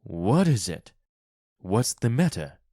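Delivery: mild alarm in the voice; alarmed cry. A narrator's reading. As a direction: cry out as if just woken. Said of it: "Mister White cried".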